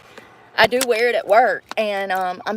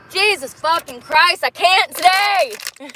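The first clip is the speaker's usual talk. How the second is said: higher, slow, overwhelmed cry of "I can't"; exasperated outburst; 7 semitones higher, slower than usual. Real, not acted. Dancer finding her shoes gone too, higher and exasperated. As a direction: let it all spill out at the end of her rope.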